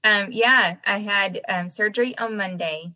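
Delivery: swollen face, lopsided speech; talking out of side of mouth. Real, not acted. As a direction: speak from one side of the mouth. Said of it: "I'm only talking out of the side of my mouth".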